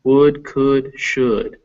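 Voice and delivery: could, should, would each with a short lax oo; short oo vowel. Shown as a demonstration. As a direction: sound the oo in could. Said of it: "is all this uh".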